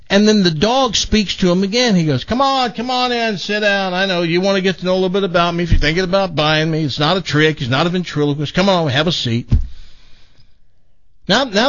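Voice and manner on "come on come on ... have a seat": higher, chatty dog voice, quick in places; a dog coaxing the visitor to sit, lightly voiced; talking dog. Talking dog invites the buyer.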